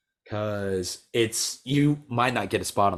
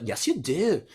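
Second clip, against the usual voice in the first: laughing mock reply; 7 semitones higher, slower than usual. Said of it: "He's like".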